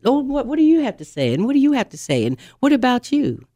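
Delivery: chatty parrot host. Retold or imitated. Parrots chatting around the table.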